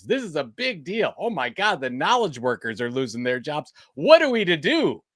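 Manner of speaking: mock alarm. Co-host mimicking knowledge workers losing their jobs, in mock alarm. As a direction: wail it in pretend dismay.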